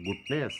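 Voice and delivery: গুডনেস split into গুড and নেস; two-beat demo. Shown as a demonstration. Teacher showing two syllables to students, split into beats. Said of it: "গুড একবার ভেঙে উচ্চারণ করলাম".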